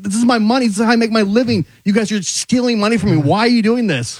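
high-pitched retold plea; begging bus driver. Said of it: "the bus driver's begging".

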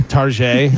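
"Tarjay" as tar-ZHAY; mock-French pronunciation. Shown as a demonstration. Host asking about other joke names, mock-French. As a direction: say "Tarjay" as if the store were French. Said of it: "Do you say".

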